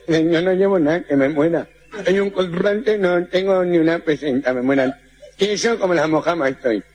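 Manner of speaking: muddled consonants, llevo as jemo; nasal-speech character. Acted. The gangoso protesting to muggers, consonants blurred. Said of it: "Un gangoso".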